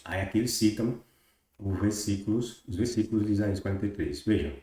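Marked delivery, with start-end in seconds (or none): none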